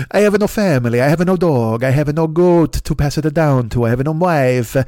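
put-on a light Italian accent on an old shopkeeper. Italian-accented shopkeeper refusing the American soldier, lightly voiced. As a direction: lightly play an Italian violin owner. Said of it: "me competing with Chris Pratt for the voice of Super Mario".

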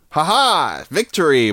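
triumphant. Acted. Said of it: "Exclamation is like".

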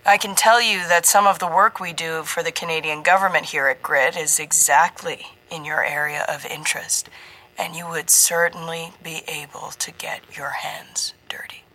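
slimy, leaning on each word; oozing, every word stressed. Acted. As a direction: ooze charm into every word. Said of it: "the ooze in his voice as he emphasized every word".

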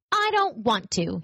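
slow, reluctant small rabbit; mildly sulky toy rabbit; evasive little rabbit. Acted. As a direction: dodge it slowly.

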